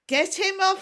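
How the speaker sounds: high, loud demand; urgent shout. A narrator's reading. Stoic with a dragon on his beard, shouting. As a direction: shout for help. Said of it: "Stoic with dragon on beard".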